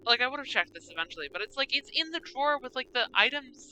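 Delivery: loud, exasperated complaining; worked up and emphatic; upset. Real, not acted. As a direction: rant indignantly about an unfair puzzle. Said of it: "Why am I getting upset?".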